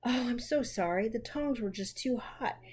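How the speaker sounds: a touch of a groan, regretful; sorry and rueful, lightly groaning; understated remorseful groan; mild groan. Acted. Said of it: "groaned poor Jo".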